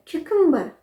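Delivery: क्यूकम्बर high, then falling; Y glide pronunciation. Shown as a demonstration. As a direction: say क्यूकम्बर as "KYOO-kum-ber". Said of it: "या का sound आता है".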